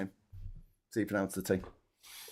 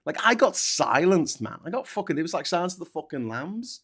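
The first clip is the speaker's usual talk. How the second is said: mock-outraged whine, pitched up; hammed-up victim; 5 semitones higher than usual. Ranting to his co-host as a mock martyr, pitched up. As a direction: play the martyr who got cancelled.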